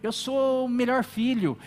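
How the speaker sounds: self-righteous boast. Pretend. Voicing self-righteous David, building.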